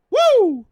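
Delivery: very high, loud "woo"; hyped whoop. Real, not acted. Host hyped for next week, high whoop. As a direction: let out a piercing whoop.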